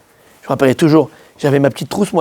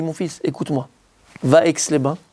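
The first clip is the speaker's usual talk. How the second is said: softer, fatherly advice; soft fatherly rabbi; 6 dB quieter than usual. Retold or imitated. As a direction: gently coax him like a son. Rav advises softly.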